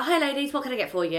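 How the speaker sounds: re-enacted perky bar greeting, starting high; high-energy greeting. Bartender greeting customers at a busy bar, high-energy. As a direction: imitate an upbeat server's opener, settling by the end. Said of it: "high energy".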